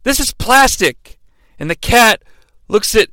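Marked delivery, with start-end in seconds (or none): 0.0-1.2 high, slow unimpressed complaint; deadpan Glenn. Retold or imitated. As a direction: let the letdown drag out. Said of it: "and Glenn goes".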